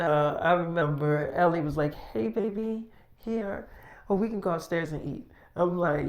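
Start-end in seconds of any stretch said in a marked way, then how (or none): 1.9-5.3 soft, hushed, intimate invitation; hushed invite. Retold or imitated. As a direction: murmur it close, just for him. Girlfriend inviting him upstairs privately.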